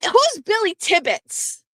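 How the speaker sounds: high, drawn-out shouted-style question; calling out. Retold or imitated. Wife asking Jeff from the top of the stairs, calling out. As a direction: re-enact calling a question downstairs, slowly.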